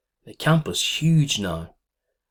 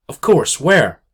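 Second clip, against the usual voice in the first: flustered reply; 7 semitones higher, 9 dB louder, slower than usual. Acted. Flustered mother snatches hand back.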